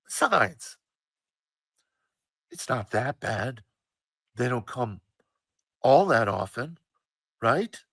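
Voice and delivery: mock-cheery motherly reassurance; kinda cheery. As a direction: end on a mildly upbeat note like a mom. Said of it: "to end on a kinda cheery note".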